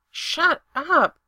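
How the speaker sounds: sharp, loud shut up; snapping. Acted. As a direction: cut him off hard. Frustrated outburst at friend.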